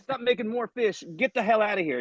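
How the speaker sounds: high-pitched, drawn-out mock outrage; comic exasperation, pitched well up; fed-up complaint. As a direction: shoo away an unwanted miracle worker. Acted villager fed up with fish.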